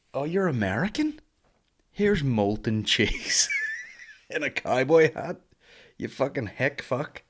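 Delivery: mocking an American. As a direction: sneer at an American tourist, hammed up. Mocking Americans with hick dish.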